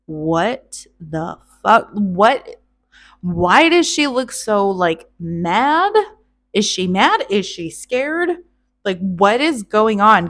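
loud, startled disbelief; panicked shout of a startled groom; shocked outburst. Acted. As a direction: recoil and blurt it out in shock. Thrym leaps back in shock.

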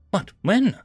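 shocked. A narrator's reading.

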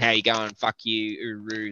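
put-on casual, lightly done thick Australian accent. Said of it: "I talk with a very thick Australian accent".

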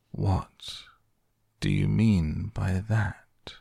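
slow, stern caterpillar. Acted. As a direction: demand it sternly and slowly. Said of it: "said the caterpillar sternly".

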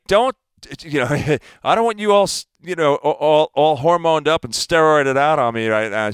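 imitating the wife scolding him with a laugh; mock wife's protest. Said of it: "She's like".

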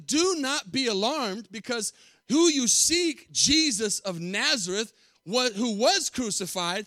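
angel speaking. Acted. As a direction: announce gently like a heavenly messenger. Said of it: "But he said to them".

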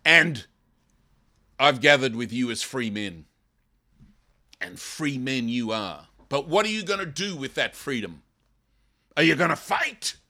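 loud, rising call to fight; preacher voicing a warrior's rallying cry; rousing battle cry. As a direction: rouse the troops to fight. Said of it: "And he says".

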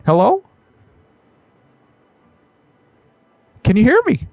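a hint of an indignant professor; Jordan Peterson. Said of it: "Sir, this is Jordan B. Peterson".

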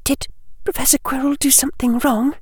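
put-on high, soft girl's voice, hesitant; lightly voiced schoolgirl, tentative; young girl Hermione. A narrator's reading. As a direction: ask it gently, afraid of the answer.

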